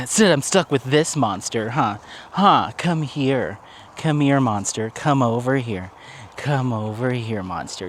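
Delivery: playful dog-directed call, slow drawn out; teasing pet talk. Real, not acted. Owner calling her dog over, playful teasing pet talk.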